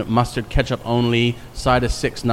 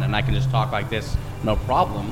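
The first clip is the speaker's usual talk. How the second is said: lightly put-on American accent; 3 dB quieter than usual. Shown as a demonstration. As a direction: show off the American accent, easy and casual. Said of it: "I can switch it on and off".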